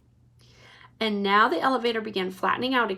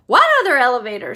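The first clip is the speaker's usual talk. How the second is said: louder, fast alarmed scream; 9 dB louder, faster than usual. A narrator's reading. Missus TV hearing of the other elevator, alarmed scream. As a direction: scream in panic. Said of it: "screamed Missus T V".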